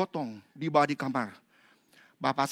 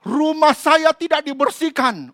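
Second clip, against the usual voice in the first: complaining spirit; 8 semitones higher, 10 dB louder than usual. Retold or imitated. Spirit answering.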